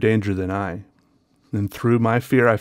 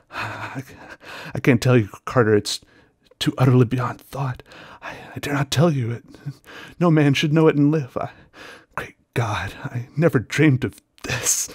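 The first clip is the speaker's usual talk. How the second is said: higher, halting, scared voice; fearful despair; 4 semitones higher than usual. Acted. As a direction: stammer it out in dread. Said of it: "still hoarse with fear, and now apparently tinged with despair".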